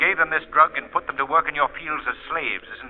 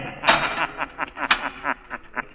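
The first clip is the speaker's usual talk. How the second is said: mocking laugh; 2 semitones higher, 6 dB quieter than usual. The Shadow laughs at the mistress.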